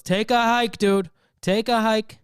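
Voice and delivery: loud, high, commanding shout; Fauci. Acted. Fauci kicking covid out the back door, loud shout. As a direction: yell it like throwing someone out.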